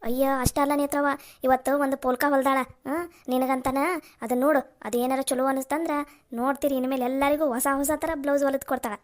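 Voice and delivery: a loud, homely aunt in rural dialect; village aunt. Acted. Aunt telling Netra about her old sewing machine, homely and proud.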